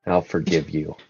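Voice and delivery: low, soft, weary-sounding reproof; sigh, then speak low and quietly, slowing down. Acted. Sirius forgives a bowing minstrel, sighing. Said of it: "just kinda sighs and he says".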